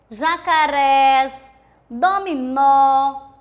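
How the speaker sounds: jacarés, dominó said very slowly, syllable by syllable; 慢读示范词. Shown as a demonstration. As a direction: stretch out jacarés and dominó, leaning on the stressed last syllable. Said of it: "ou também com acento circunflexo".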